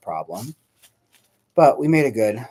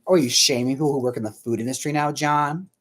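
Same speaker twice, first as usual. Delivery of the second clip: mock indignant; 4 semitones higher, 4 dB louder than usual. Mock scolding of John.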